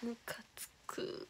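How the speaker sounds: soft, slow, grumbled under the breath; a soft, grumbled complaint about dad; muttered annoyance. Real, not acted. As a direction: mutter it, fed up.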